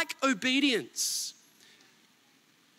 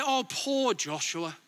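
mock coddling. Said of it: "He doesn't say".

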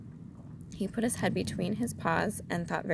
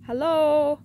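high, loud drawn-out call; voiced stage whisper, pitched high; 9 semitones higher, 10 dB louder than usual. A narrator's reading. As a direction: call down to someone below. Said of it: "he said in a loud whisper".

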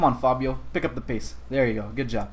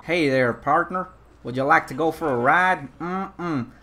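put-on cowboy accent. Cowboy inviting a partner for a ride, cowboy accent. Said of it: "this is my cowboy accent".

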